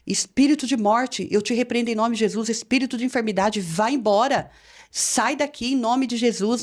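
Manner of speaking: measured, deliberate commanding prayer; warfare prayer demo. Shown as a demonstration. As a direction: rebuke a spirit firmly. Demonstra oração de guerra. (oração de guerra, firme e pausada)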